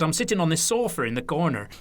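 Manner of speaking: broad Lancashire storytelling voice; chatty Lancashire impression; Lancashire accent. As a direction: put on an older Lancashire man. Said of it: "So it's my Lancashire accent there".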